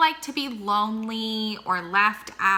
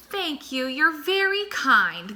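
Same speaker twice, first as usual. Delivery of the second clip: smiling thanks; 6 semitones higher, 3 dB louder than usual. Acted. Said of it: "they replied, smiling".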